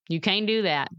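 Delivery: understated voice of self-doubt; negative inner voice. Acted. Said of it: "Sometimes my head will say".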